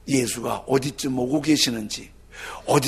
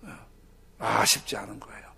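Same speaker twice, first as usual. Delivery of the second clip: whisper; 7 semitones lower, 3 dB quieter than usual. Real, not acted. 속삭임.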